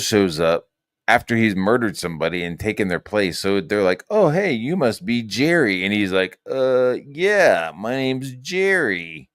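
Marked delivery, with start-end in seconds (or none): 4.1-5.8 higher, chirpy retold hello; mock friendly greeting. Researchers greeting the newcomer they expect, mock friendly. 6.5-9.3 higher, drawn-out fake agreement; mock unconvincing bluff. Killer posing as the man he murdered, mock bluffing. Impostor lying about his name.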